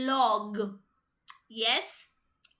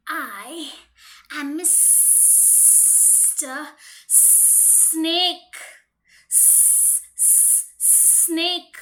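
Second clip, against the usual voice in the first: hissing snake; much slower than usual. Acted. Snake introduces himself to the mouse, hissing. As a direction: hiss the name out like a sly snake. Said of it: "He just hisses a lot".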